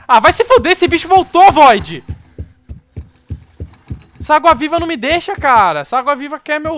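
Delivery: high, loud frightened yelling; panicked yelling. Real, not acted. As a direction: yell in fear and anger. Monster returns.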